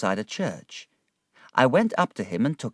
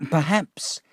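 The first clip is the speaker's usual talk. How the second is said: sly whisper; 8 semitones higher than usual. A narrator's reading. Uriah hints slyly.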